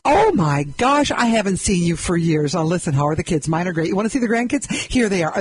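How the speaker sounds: hammed-up gushing acquaintance showing grandkid photos; gushing chatter. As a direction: gush like an old friend spotting you at the store.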